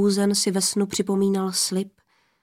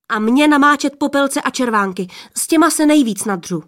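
higher, louder and fast exclamation; cried out; 5 semitones higher, 4 dB louder, faster than usual. Acted. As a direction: blurt it out, hurried and loud. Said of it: "vykřikla prostřední". (prostřední sestra vykřikne rychle a hlasitě)

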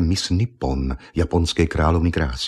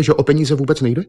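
higher, louder incredulous repeat; disbelieving echo; 8 semitones higher, 4 dB louder than usual. Acted. Miss Nippon repeating Argon's words, higher and incredulous. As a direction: toss his words back in disbelief.

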